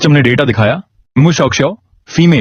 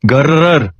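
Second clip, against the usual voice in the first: puppy growl; much slower than usual. Acted. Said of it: "माओ माओ गुर्राया".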